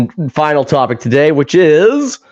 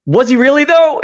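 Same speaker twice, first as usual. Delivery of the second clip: doubtful question; 9 semitones higher than usual. Retold or imitated. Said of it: "he's like".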